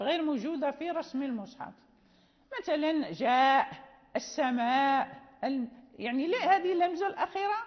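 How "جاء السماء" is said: جاء and السماء with long aa closed by a glottal stop; final hamza sounded. Shown as a demonstration. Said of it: "يعني نجدها".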